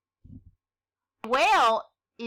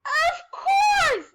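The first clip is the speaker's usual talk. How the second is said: very high, loud, over-eager cry; eager promise; 7 dB louder than usual. Acted. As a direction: promise far too quickly. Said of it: "the princess promised".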